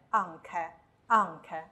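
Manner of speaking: anche as AN-ke, stress first and hard k; stress by rule. Shown as a demonstration. Teacher applying the stress rule, anche as AN-ke. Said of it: "再根据之前学的重音规则".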